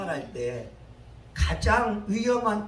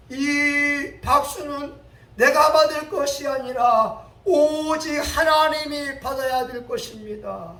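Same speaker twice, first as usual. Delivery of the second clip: Haydn; 7 semitones higher, 8 dB louder than usual. Acted. Haydn protests and deflects the applause.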